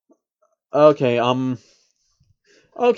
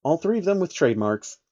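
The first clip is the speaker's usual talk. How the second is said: steady read-aloud narration of a fanfic; story narration. Acted. YouTuber reading a fanfic chapter to viewers, steady narration.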